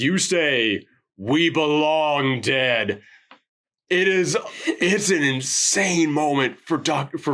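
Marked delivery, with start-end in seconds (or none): 0.0-3.0 lightly voiced monster, very slow; slow monster line. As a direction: stretch the doomed words out slowly. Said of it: "and just says".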